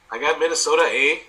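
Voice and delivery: put-on Minnesota accent. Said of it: "That's my Minnesota accent".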